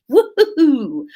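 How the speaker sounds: high, whooping little celebration; gleeful cheer. Real, not acted. Streamer cheering that the grammar was correct, gleeful whoop.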